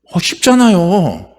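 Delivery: slowly, as if it's obvious; slow, drawn-out answer. Real, not acted. Preacher answering his own question, slow and obvious. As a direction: let it land slowly and plainly.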